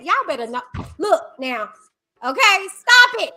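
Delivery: fed-up preaching at the audience; loud soapbox ranting. Real, not acted. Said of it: "I'm, I'm off my soapbox now".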